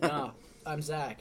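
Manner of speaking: slow, laughing "no, I'm Zach"; giggling through a mock correction. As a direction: correct him while cracking up.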